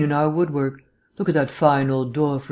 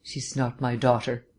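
through clamped teeth; 2 semitones lower, 4 dB quieter than usual. Acted. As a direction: force it out through gritted teeth. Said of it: "spoke through clamped teeth".

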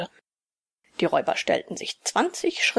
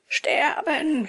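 Sterben echoed higher, in a whisper; echoing robber; 5 semitones higher than usual. Acted. Second robber echoes the threat, Sterben whispered higher. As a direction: Sterben breathed back high and hushed. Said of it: "wiederholte der andere".

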